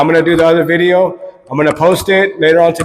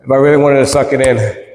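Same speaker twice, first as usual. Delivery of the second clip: stomach pulled all the way in; sucking in harder. Shown as a demonstration. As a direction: speak with belly sucked in tight. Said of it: "or I can go".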